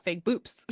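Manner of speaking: boobs said as "boops"; boyfriend's mispronunciation. Retold or imitated. Woman quoting her boyfriend, mimicked slip on boobs. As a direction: end boobs on a P, imitating him. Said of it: "he always says "boops".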